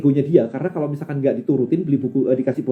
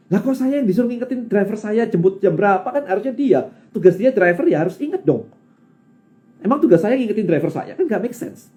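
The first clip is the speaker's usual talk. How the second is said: higher-pitched, mildly exasperated protest; replayed grumble, pitched up; indignant complaint; 5 semitones higher than usual. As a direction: argue the point in mock disbelief. Acts out indignation at driver's request.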